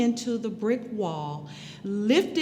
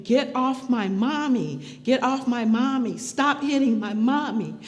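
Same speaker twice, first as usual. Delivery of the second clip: a mild mock of a child's yell, somewhat louder; retold child screaming; 3 semitones higher, 3 dB louder than usual. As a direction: voice the little daughter shouting at the officer. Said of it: "she's screaming".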